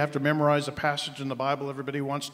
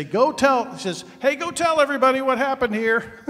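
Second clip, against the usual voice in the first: laughing, higher and louder mock cry; mock announcement; 10 semitones higher, 9 dB louder than usual. Preacher mocking the idea of Jesus bragging, laughing. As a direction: ham up a boastful call through a laugh.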